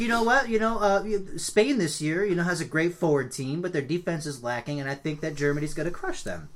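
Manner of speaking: high octopus pundit voice. Retold or imitated. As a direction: play a squeaky octopus pundit. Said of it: "He coulda been like".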